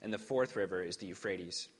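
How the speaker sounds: measured, formal lector reading; scripture reading. Acted. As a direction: read the Genesis passage aloud to the congregation. Scripture reading before sermon.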